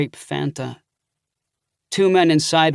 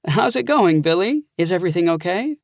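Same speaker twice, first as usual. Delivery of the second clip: higher, bright aunt asking after her nephew; cheerful aunt; 4 semitones higher than usual. Acted. Aunt answering her nephew's call, fond and cheerful. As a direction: lift the voice into a fond older aunt. Narrator voices Aunt Helen.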